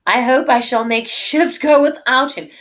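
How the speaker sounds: loud, lofty lady's line; voiced Portia. Teacher voicing Portia, dismissing the German suitor, lofty and loud. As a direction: declaim it like a noble heroine.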